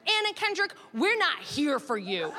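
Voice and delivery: mock defensive declaration to a celebrity; awkward announcement. Acted blurt at the celebrity.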